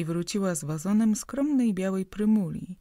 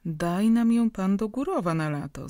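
louder eager call; 3 semitones higher, 6 dB louder than usual. Acted. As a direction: call it out warmly to the guest. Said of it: "zawołała Szpanowska". (głośne zawołanie)

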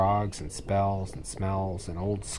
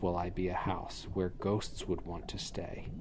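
softer hushed plea; whisper; 8 dB quieter than usual. A narrator's reading. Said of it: "Mom, I need an odor".

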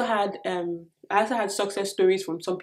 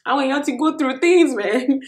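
mock challenge; 5 semitones higher, 6 dB louder than usual. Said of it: "I was like".

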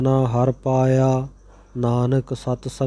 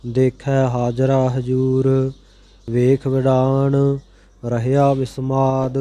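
measured, even chanting of sacred verse; scripture recitation. Acted. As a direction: recite each line steadily, phrase by phrase. Recites scripture verses between explanations.

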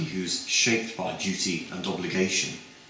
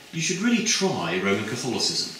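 quoted student; 3 semitones higher than usual. Retold or imitated. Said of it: "I won't do the American accent".

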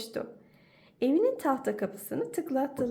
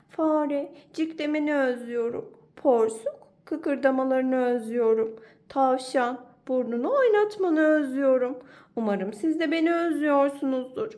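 higher, louder little bear missing friends; little bear's letter; 3 semitones higher, 5 dB louder than usual. Acted. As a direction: read it as a lonely little cub.

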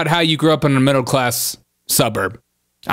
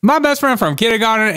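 higher-pitched mimicry of a politician; mocking imitation; 5 semitones higher than usual. Host parroting the candidate's clip, mocking imitation.

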